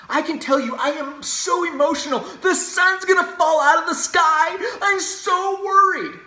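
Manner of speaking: high, loud, slow hammed-up panic; mock hysterical. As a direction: overact the fear, wailing it out slowly. Mocking emotional liberal argument.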